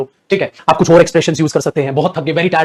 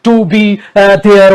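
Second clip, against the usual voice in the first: mock gushing bride; 3 semitones higher, 4 dB louder, much slower than usual. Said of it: "तो दुल्हन को बोला जाता है ना नीचे नजर रखना".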